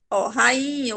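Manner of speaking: rainha with the i stretched long; syllables pulled apart; drawn-out rainha. Shown as a demonstration. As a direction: drag out the i in rainha. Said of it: "o i se arrasta mais".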